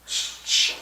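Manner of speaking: hushed "shh, shh"; unvoiced shush, twice. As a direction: imitate someone urgently shushing. Retelling Homer shushing.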